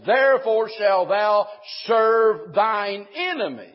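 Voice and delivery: slow, building proclamation of a verse; emphatic scripture reading. Acted. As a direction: read scripture out, rising to a loud, high climax. Reads scripture aloud emphatically.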